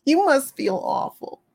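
soft pitying coo, swooping up high; overdone pitying sympathizer; mock pity. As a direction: lay the fake sympathy on thick. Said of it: "don't ever go to an animal and pity them".

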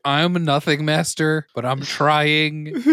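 slow, loud movie-scene plea; imitated emphatic plea. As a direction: retell the plea loudly, dragging out the words. Acting out standoff plea from the film.

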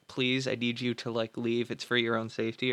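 lightly voiced kind asking, not angry; gentle plea. Imagined kinder husband gently asks his wife to leave, soft plea. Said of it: "it never being like".

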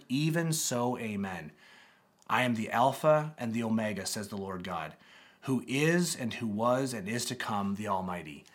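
measured, solemn Bible reading; scripture reading. Acted. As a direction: read the passage aloud with reverence.

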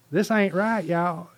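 high, loud Southern protest; Mississippi accent. Acted. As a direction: call it out as a Mississippi angel. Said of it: "the angel's from Northeast Mississippi".

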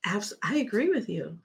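whispered agreement. Real, not acted. Co-host agrees with the host in a whisper. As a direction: breathe the agreement, no voice.

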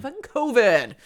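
loud, punched echo; loud emphatic curse. Real, not acted. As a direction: belt out the curse. Echoing a curse at covid.

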